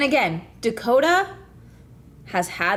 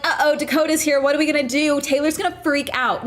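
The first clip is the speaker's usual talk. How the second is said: higher-pitched mock fretting; mock worry; 4 semitones higher than usual. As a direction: imitate their helpless fretting. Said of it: "kept acting like".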